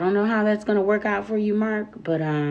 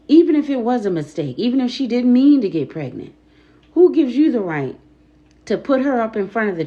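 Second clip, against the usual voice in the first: angry; 4 semitones higher, 4 dB louder, faster than usual. Real, not acted. Angry rant at church.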